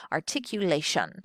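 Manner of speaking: Articulation with each syllable spoken separately and crisply; 「Articulation」を一音ずつ明瞭に. Shown as a demonstration. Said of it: "You can just hear that it is spoken accurately".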